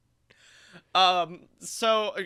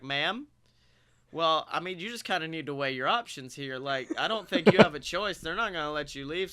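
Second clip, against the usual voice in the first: put-on drunk clarity; 2 semitones lower than usual. Drunk guest advising a scare actor on her options, mock-reasonable. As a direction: talk her through it with tipsy, sober-sounding reason. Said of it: "I had a moment of drunk clarity".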